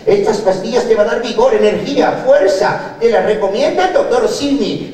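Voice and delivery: hammed-up infomercial read.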